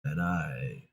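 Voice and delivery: low, quiet, monotone grizzled soldier; slow, stoic Western-style man voice; Master Chief. Acted. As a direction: keep it deep, soft and monotone. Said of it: "I'm Master Chief".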